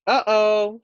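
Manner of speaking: high, loud alarmed uh-oh; worried uh-oh. Acted. Guinea pig seeing the giant almost down. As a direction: sense the danger closing in.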